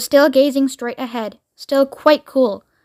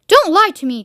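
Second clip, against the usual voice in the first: accusing; 5 semitones higher, 4 dB louder than usual. Acted. President accusing the interpreter.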